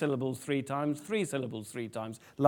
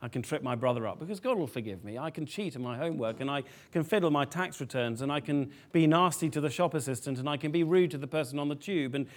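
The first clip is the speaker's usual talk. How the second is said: quick, offhand run of excuses; mock nonchalance, hurried along; careless excuse-making; faster than usual. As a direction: rattle off excuses as if nothing matters. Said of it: "the sort of thinking".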